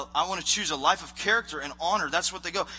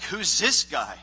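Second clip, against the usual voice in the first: cocky challenge, punched louder; light cocky swagger; 4 dB louder, slower than usual. Retold or imitated. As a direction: imitate a cocky young challenger. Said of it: "a little cocky".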